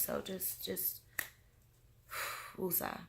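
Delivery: breathy whispered self-soothing with a sigh; whispered woosah to stay calm. Retold or imitated. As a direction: hush yourself down and breathe it out. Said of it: "talking to myself".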